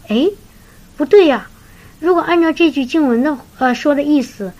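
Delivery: it suddenly dawns on her; sudden realisation. Retold or imitated. Sister suddenly realises what the verse means, high exclaim. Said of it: "她突然说".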